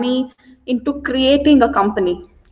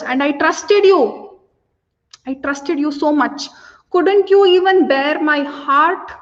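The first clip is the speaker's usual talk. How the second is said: a little emotional; 3 semitones higher than usual. Acted. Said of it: "now she gets a little emotional".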